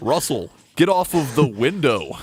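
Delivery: put-on American accent. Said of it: "you gotta use your best American accent".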